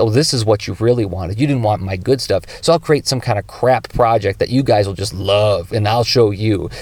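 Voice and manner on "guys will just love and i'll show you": normal talking voice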